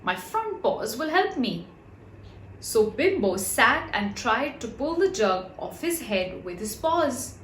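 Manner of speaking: usual speaking voice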